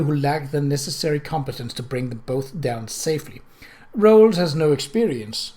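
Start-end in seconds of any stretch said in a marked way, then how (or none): 3.9-5.5 wide-eyed. Acted. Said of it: "the vicar asked, wide-eyed".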